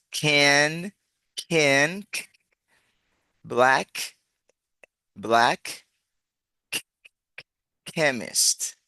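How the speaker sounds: "can, black, chemist" spaced out with crisp K; articulated K sound. Shown as a demonstration. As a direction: release the K hard at the end of "black". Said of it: "aquí pronunciamos".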